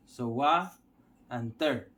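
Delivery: "wa" and "ter" apart, pause between; split into syllables. Shown as a demonstration. Teacher showing learners the two syllables, split into syllables. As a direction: break water into "wa", then "ter". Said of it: "two syllable".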